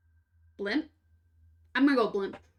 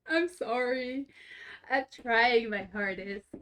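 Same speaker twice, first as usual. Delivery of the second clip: wheezing through the words, slow; short of breath, wheezy; slower than usual. Real, not acted. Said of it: "hear me wheezing".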